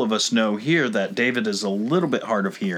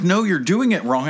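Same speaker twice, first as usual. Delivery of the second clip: higher-pitched retold yell; mock yell; 5 semitones higher than usual. Worker correcting a driver at the oil change, mock yelling. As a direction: mimic a scolding yell, only mildly raised. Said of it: "So she's yelling at me".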